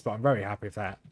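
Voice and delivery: flat monotone, no lift; deadpan monotone happiness. Real, not acted. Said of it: "by my monotone voice".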